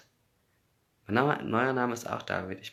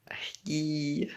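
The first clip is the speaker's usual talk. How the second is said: whispered hi; 8 semitones higher than usual. Real, not acted. Whispered greeting to a fan.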